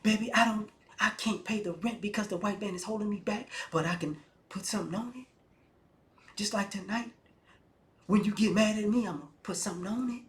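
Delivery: spoken-word cadence with dramatic pauses; mock slam poet. Broke guy sweet-talking women, mock slam-poet delivery. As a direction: parody a pontificating poet, pausing for weight between phrases. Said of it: "All of y'all sound like slam poets".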